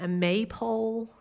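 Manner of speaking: maypole in a slow American accent. Shown as a demonstration. Preacher showing the American word, American accent. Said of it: "gonna say that in this American accent".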